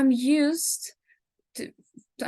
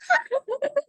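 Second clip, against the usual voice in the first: put-on creepy child giggle. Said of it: "a little giggling".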